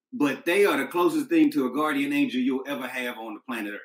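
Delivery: ordinary delivery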